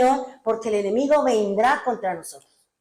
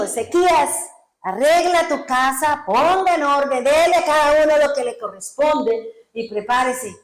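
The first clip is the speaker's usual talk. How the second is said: raised, emphatic prophet's command; orden profética; 3 semitones higher, 4 dB louder than usual. Acted. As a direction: deliver an urgent order from God. Actúa la orden del profeta. (orden profética firme, en voz alzada)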